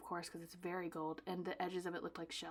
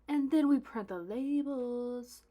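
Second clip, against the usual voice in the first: loud, higher, drawn-out fanfare; playful announcement; 5 semitones higher, 10 dB louder, slower than usual. Acted. Host announcing the label printing step, playful drawn-out fanfare. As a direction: stretch it out with mock grandeur.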